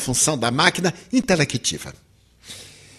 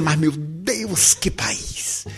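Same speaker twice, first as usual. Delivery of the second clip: mock awe; 6 dB quieter, much slower than usual. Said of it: "E eu dizia".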